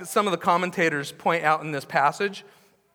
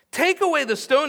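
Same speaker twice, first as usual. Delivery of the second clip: commanding call; 8 semitones higher, 5 dB louder than usual. Acted. Pastor voices Jesus commanding.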